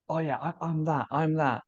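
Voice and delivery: lightly mocked eager identifying; mimicking distorted ego. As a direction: latch onto it with a slightly lifted voice. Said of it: "experiencing that from a distorted".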